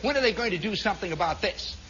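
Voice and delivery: small, petty grumble in imitation; mock fussy little complaint; niggling complaint. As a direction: grumble it like a prim insurance man. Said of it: "making those little niggling comments".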